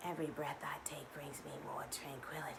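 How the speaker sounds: breathy whispered affirmation; hushed mantra. Shown as a demonstration. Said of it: "affirmation taught".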